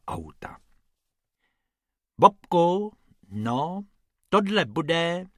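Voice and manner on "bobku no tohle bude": lightly voiced rabbit diagnosing. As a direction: call him like a small rabbit. Rabbit talking to Bob.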